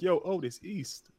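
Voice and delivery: lightly voiced cartoon host; exaggerated cartoon intonation. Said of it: "Why he talking like that".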